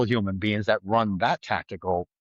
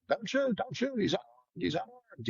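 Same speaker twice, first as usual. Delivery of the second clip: cops yelling; 11 semitones higher, 6 dB quieter than usual. Retold or imitated. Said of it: "Pennsylvania cops yelling".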